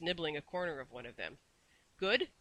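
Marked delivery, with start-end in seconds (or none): 2.0-2.3 high, eager little question; squeak. A narrator's reading. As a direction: squeak it out brightly. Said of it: "squeaked Missus Corey".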